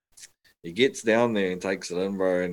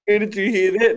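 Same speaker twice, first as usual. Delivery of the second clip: incredulous; 13 semitones higher, 7 dB louder than usual. Retold or imitated. Incredulous question in retold exchange.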